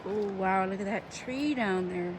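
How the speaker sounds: loud excited wow. Real, not acted. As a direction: call out in delight. Excited at tree view.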